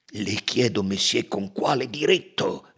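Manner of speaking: a touch of indignant count; understated angry challenge; mild furious outburst. Acted. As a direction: count bristling, lightly voiced. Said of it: "esplose il conte infuriato".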